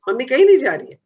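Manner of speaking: lightly voiced mother comforting a child; reassuring mother. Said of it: "होता है ना ऐसा". (माँ की हल्की-सी नकल, बच्चे को भरोसा देती)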